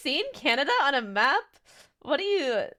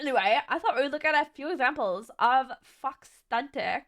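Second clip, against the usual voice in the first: mock California accent. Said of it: "he has such a California accent".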